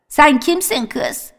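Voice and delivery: put-on high, slow call of an old man; old grandfather calling. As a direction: call out to the girls like a half-blind old man. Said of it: "kızlara şöyle bağırırdı". (yaşlı dede gibi yüksek ve yavaş seslenerek)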